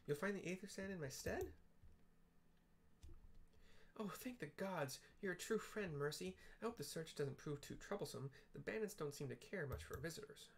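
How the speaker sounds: grateful Wedge. Acted. Wedge thanks Mercy.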